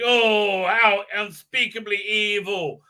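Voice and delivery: a mocking lightly voiced heroine; mocking impression. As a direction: drag it out like a bad melodrama. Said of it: "she's like".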